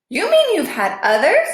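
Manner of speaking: a touch of a choked cry; mild shocked worry; dismayed. A narrator's reading. Shocked Bob.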